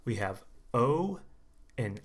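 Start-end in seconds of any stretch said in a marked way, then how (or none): 0.7-1.2 O said as a long, drawn-out oh; a rounded, gliding oh for O; long O sound. Shown as a demonstration. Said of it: "the key sound".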